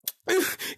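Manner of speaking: breathy, high mock sob; demonstrated cry. Shown as a demonstration. Storyteller showing friends how he'd have cried, breathy mock cry. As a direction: let out a wordless, breathy little cry. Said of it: "like, that kind of cry".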